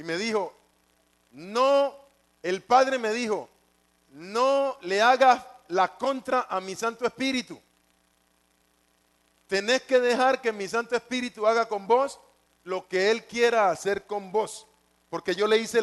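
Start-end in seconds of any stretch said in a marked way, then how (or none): 1.3-1.9 mild scolding, a firm raised "no"; retold scolding. God scolding the man that same night, mild rebuke. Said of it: "Esa misma noche me regañó". 4.1-14.7 mildly stern reprimand, slightly raised; retold scolding. God the Father scolding him for resisting, mild rebuke. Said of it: "Esa misma noche me regañó".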